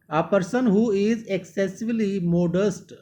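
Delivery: slow reading. Shown as a demonstration. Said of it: "teacher reads definition aloud".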